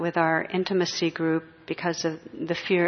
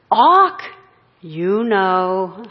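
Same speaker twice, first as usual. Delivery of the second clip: squawking parrot; 9 dB louder, much slower than usual. Retold or imitated. Parrot squawks insults at a passing woman, shrill and loud. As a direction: screech it like a mocking parrot. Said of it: "The parrot's out there".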